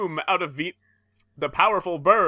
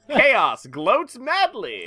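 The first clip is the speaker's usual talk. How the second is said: slow dramatic read; 8 semitones higher, much slower than usual. Acted. Reading caption dramatically.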